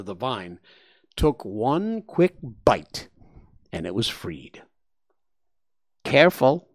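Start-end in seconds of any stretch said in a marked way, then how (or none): 6.0-6.7 snickering. Acted. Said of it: "said with a snicker".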